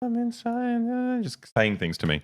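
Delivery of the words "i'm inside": put-on very high, eerie, creepy little-girl ghost voice. Retelling a dream about a ghost in the bathroom: imitating a creepy little girl ghost. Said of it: "one of those creepy little girl ghosts, being like".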